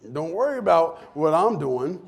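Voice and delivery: "Don't worry about what I'm doing" eased off, with a laugh; amused retelling. Shown as a demonstration. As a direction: say it lightly, like mom's old saying. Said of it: "say it like this".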